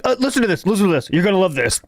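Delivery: mock groggy, dull read. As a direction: sound sleepy and dull. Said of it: "he makes him sound gruggish".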